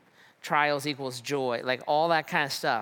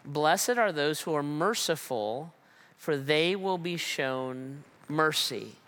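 slow, reverent reading of Blessed are those who are merciful; hushed reverence; slow solemn quote; slower than usual. Acted. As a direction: lean in gently, as if reading scripture. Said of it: "this is the way he says it".

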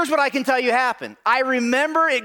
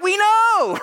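proud high boast; 9 semitones higher, 3 dB louder than usual. Retold or imitated. Boys proudly answering.

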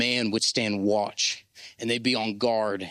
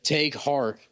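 emphatic call; 3 semitones higher than usual. Shown as a demonstration. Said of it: "say it with something like you mean it".

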